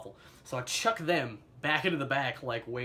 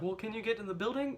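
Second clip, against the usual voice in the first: voicing mom; 9 semitones higher than usual. Mother voiced on phone.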